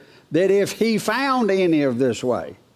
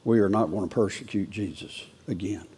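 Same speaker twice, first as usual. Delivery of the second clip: firm but quiet; 5 semitones lower, 6 dB quieter than usual. Shown as a demonstration. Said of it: "you need to say".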